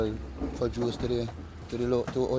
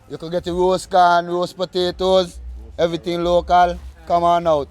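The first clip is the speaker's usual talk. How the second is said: lively market-stall pitch, a bit louder; upbeat sales pitch; 3 semitones higher, 5 dB louder than usual. Real, not acted. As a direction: call the customers over with energy. Vendor calling buyers to his stall.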